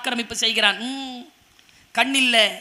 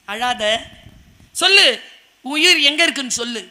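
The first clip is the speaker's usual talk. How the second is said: cajoling demand. Acted. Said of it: "அவளை கொஞ்சினான்".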